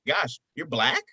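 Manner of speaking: imitated surprise, rising at the end; mock surprise. Callers who heard his phone voice, mock surprise. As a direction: act out a caller's astonished question. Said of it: "people are like".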